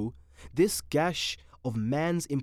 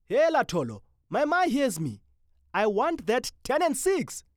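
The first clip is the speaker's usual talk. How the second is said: loud, high jesting shout; calling out; 10 semitones higher, 4 dB louder than usual. Acted. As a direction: holler across the platform. Loud gibberish exchange with friends.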